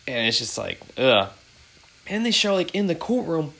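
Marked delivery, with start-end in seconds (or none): 1.0-1.3 short, louder groan of disgust; disgusted "ugh". Real, not acted. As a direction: let out a revolted "ugh". Disgust at the killer's looks.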